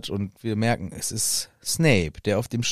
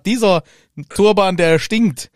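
mock disgusted rant; 4 semitones higher, 5 dB louder than usual. Mock rant about Quirrell.

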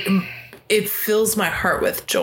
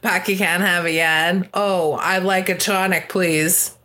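mock Boston accent, badly faked; overdone Boston vowels; fake Boston accent. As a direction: imitate an outsider's Boston accent. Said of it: "not from Boston is like".

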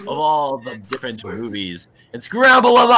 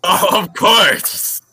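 mock agreement; 4 semitones higher, 5 dB louder, much slower than usual.

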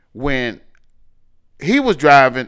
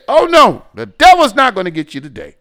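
fervent prayer; 4 semitones higher, 7 dB louder than usual. Retold or imitated. Father prays over son.

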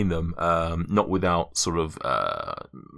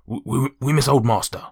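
dog voice; 5 semitones higher than usual. Acted. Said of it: "I can't even do a dog voice at this point".

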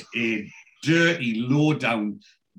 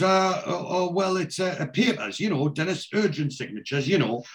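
higher, tripping over the words; flustered stammer; 6 semitones higher than usual. Retold or imitated. Hallwood caught out by Dennis, higher flustered stammering. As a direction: caught out, scrambling for an excuse.

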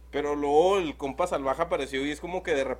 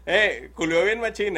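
slower, spelled-out repeat of "culió bien machín"; 3 semitones higher, 6 dB louder, slower than usual. Real, not acted. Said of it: "Sí". (repetido más despacio)

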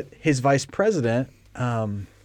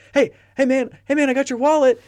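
higher and louder, calling after him; 14 semitones higher, 5 dB louder than usual. Retold or imitated. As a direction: call to the guy walking away. Calling after man on treadmill.

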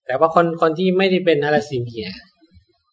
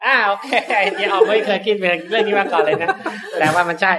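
amused, chuckling through the words; laughing while talking; 4 semitones higher than usual. Real, not acted. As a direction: laugh at the surprising thought. Amused by new realization.

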